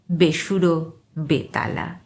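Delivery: plain reading voice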